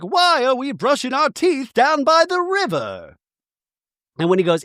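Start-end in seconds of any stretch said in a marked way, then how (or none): 0.0-3.2 high, put-on bewildered voice; puzzled Bronwyn. Bronwyn questioning the riverside toothbrushing, high and puzzled. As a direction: ask it pitched way up, baffled. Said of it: "Bronwyn's like".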